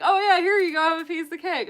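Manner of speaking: imitating friends. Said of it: "they're like".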